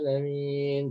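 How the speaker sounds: alamin with the lam bouncing off the tongue; teacher shows the wrong lam in alamin. Shown as a demonstration. Teacher shows students the wrong, bouncing lam. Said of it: "Jangan seperti itu ya".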